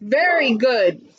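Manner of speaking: slow, mildly yawned words; yawning giant. Acted. Giant pleased with the golden egg, yawning. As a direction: stretch it out as if starting a yawn. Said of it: "said the giant with a mighty yawn".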